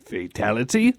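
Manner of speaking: put-on hesitant childlike question, rising at the end; mock bashful child; five-year-old. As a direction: ask timidly like a kid ordering lunch. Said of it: "you sound like a five-year-old".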